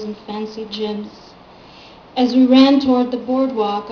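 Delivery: steady literary recital with falling cadences; poem reading. Acted. Poet reads the book's last poem to an audience, measured recital.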